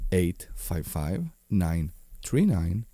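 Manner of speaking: sexy voice. Acted. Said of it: "the sexy voice man".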